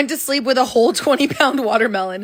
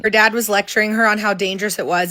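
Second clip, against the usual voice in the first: ordinary delivery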